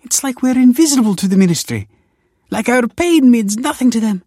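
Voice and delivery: high, loud, desperate begging; sobbing plea. A narrator's reading. Desperate wife begging Kelsey for a baby, sobbing. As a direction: plead at a high pitch, as if sobbing. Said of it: "she sobbed".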